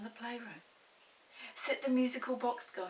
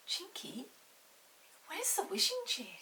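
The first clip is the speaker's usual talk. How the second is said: anxious; 12 semitones higher than usual. A narrator's reading. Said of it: "asked Molly anxiously".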